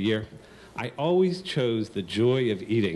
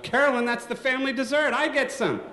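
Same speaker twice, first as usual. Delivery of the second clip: a lightly voiced father calling out; mild father call; 14 semitones higher than usual. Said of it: "my father yells out".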